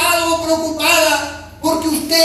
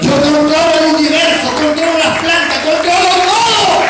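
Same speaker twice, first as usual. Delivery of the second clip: God's voice; 3 semitones higher, 5 dB louder than usual. Acted. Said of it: "dice el Señor".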